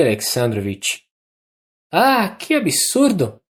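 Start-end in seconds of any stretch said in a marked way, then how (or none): 1.9-3.4 high, ringing, uneven delirious voice; feverish Anna. A narrator's reading. Dying Anna talking feverishly in bed, high and uneven. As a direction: rush out the words in a high, moved, feverish voice. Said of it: "prosseguiu Anna".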